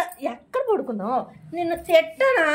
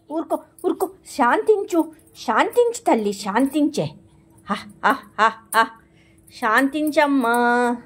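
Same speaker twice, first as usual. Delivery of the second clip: soothing the pet. Real, not acted. Owner hushes her agitated puppy, gentle and slowing.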